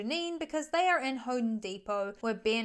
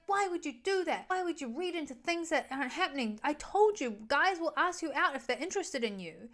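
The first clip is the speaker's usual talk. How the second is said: higher, exasperated scolding; mock freak-out; 4 semitones higher than usual. Alex freaking out at Gigi.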